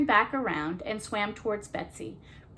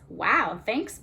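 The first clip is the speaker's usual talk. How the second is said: squeaky; 4 dB louder than usual. Acted. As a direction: squeak it out with delight. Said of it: "Mango squeaked".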